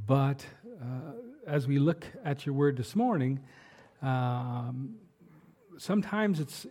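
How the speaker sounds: an unhurried, prayerful address to God; opening prayer. Acted. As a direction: pray it over the congregation, humbly. Pastor prays before the sermon.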